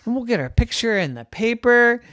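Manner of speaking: very high, fast, excited gush; bubbling over with excitement; thrilled. Acted. Girl who found a singing cave, excited gush. Trisha gushes to sister.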